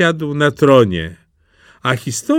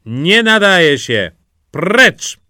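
louder, higher royal rejection; curt dismissal; 5 semitones higher, 5 dB louder, slower than usual. A narrator's reading. Princess rejects a tongue-tied suitor, curt dismissal. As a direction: send the suitor away with a raised voice.

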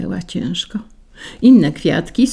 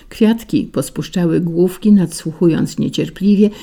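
usual speaking voice

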